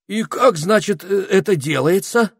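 high, loud eager question; agog, high-pitched curiosity; greatly impressed. A narrator's reading. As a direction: stumble over it in excitement. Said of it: "произвело на Этельреда сильное впечатление".

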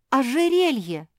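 loud, high cry of discovery; sudden excited shout. Acted. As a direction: yell it out, pointing. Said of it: "закричала Жози".

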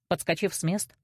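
usual speaking voice

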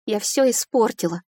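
a restrained sob under the words; tearful. A narrator's reading. Heroine confessing to Filimon, near tears. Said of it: "У меня вырвалось рыдание".

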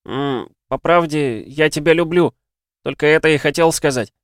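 hesitate, then say it from the heart; shy tender boy. Acted. Oliver telling his mother he loves her, shy and high. Oliver says I love you.

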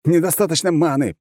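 gurgling through a mouthful of potion; choking and gurgling on liquid. Acted. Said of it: "пробулькал захлебывающийся зельем маны я".

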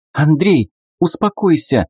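high, urgent cry of alarm; Mey crying out to calm Andrey, high alarmed call; sharp cry. Acted. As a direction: cry out to stop him. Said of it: "вскрикнула Мэй".

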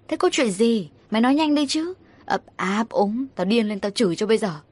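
mildly exasperated scolding; irritable snapping. Acted. Mother losing patience with her stammering daughter, irritable scolding. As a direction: scold with a touch of impatience. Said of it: "Mẹ tôi gắt lên".

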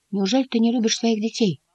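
высоким голосом, с недоумением; удивлённый вопрос котёнка; удивлённо. A narrator's reading. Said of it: "удивился Мартин". (искренне недоумевая)

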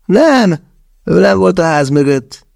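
insistent shake-of-head denial; Andrej denying. A narrator's reading. Andrej insists David was not behind the house, high voice.

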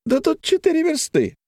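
high tipsy questioning; a hint of tipsy Paklin; lightly voiced drunk. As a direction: ask with mild drunken surprise. Paklin again.

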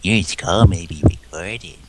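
slow, drawn-out recorded message voice; automated phone voice. Retold or imitated. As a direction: mimic a robotic hold message. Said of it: "the voice that's like".

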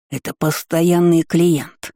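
drawn-out "постоянный клиент" with lisped sibilants; lisping. A narrator's reading. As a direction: say "Это постоянный клиент" slowly with a slight lisp. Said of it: "шепелявил Никита Владленович". ("Это постоянный клиент" медленно, слегка шепелявя)

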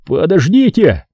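high, drawn-out mild yell; urgent but contained cry; yelled plea. A narrator's reading. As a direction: call out high and slow to stop them hanging up. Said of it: "заорал я".

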